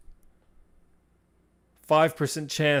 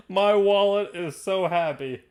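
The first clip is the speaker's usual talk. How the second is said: higher, drawn-out savoring of each word; slow gloating; 6 semitones higher, 3 dB louder, slower than usual. Real, not acted. Host relieved the player lost the roll, slow gloating. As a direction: stretch it out with relish.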